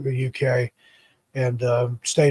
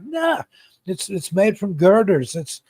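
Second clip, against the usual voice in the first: mock Scottish accent; 6 semitones higher, 5 dB louder than usual. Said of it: "I can't do the Scottish accent".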